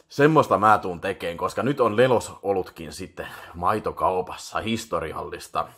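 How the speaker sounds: usual speaking voice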